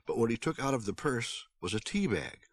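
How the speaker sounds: plain reading voice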